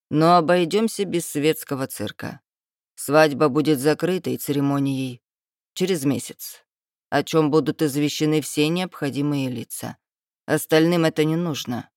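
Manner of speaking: haughty lord. Acted. Dragon lord's lines.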